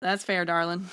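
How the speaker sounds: sweet-talking Southern accent, put on. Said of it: "I'm unsouthern".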